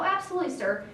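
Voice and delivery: high, mock-deferential agreement; breezy compliance. Humoring the boss one last time, breezily compliant. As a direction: agree too readily, voice lifted.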